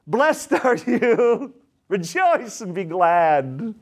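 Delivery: slow scripture read broken by a laugh; laughing while reading. Real, not acted. Preacher reading the Beatitudes to church, laughing slowly. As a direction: let the joy spill into the words, slowly.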